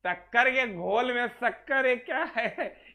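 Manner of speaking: slow, laughing disbelief; amused disbelief. Real, not acted. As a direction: repeat it laughing at how absurd it is. Mocking absurd question. (हँसते हुए अविश्वास)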